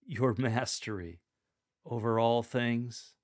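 "your mastery over all things" asked slowly; as a question. Shown as a demonstration. Lector showing the verse, read as a question. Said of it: "from a declarative statement to a question".

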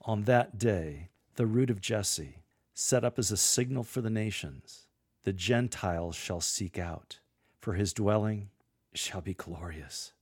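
with a sense of awe. Shown as a demonstration. Lector closing the vision of paradise, in awe. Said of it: "Deliver this last part with a sense of awe".

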